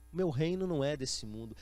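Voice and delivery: low, measured, unruffled answer; calm reply. Acted. Jesus answering Pilate's questioning, calm and low.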